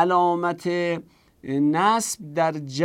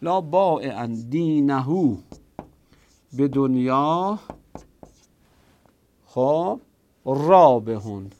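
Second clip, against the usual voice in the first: slow dictation; slower than usual. Shown as a demonstration.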